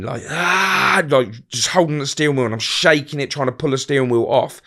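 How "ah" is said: high mock scream, held in; high drawn-out cry; retold scream. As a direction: imitate own scream at half volume. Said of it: "I just started screaming".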